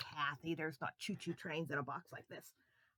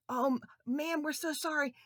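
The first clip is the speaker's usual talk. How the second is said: put-on higher, sorry little boys; apologetic boys; 9 semitones higher, 10 dB louder than usual. Boys to the lady, apologetic. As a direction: plead sorry like a child. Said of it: "the boys apologize".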